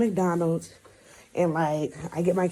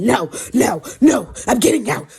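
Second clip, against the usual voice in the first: louder, emphatic mock refusal; insistent child; 4 semitones higher, 7 dB louder than usual. Girl refusing to wait in the car, acted insistent. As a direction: put on a kid stubbornly insisting.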